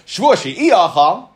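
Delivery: "she'ioichel" drawn out slowly with an i sound before oichel; slow, careful pronunciation. Shown as a demonstration. Teacher contrasting the two oath wordings for students, slow. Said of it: "ioichel means I won't eat".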